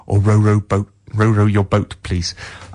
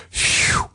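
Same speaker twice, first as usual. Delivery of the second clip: mock phew; 5 dB quieter than usual. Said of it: "I hear the world saying".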